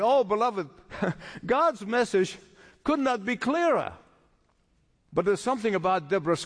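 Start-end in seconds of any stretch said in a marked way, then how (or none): none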